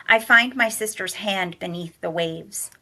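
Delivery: steady first-person reading; story narration. A narrator's reading. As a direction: read it as a novel narrator. Reading a novel aloud.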